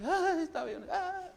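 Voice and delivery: hammed-up weeping devil; crying devil. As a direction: whimper it like a sulking devil. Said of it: "llore, y llore".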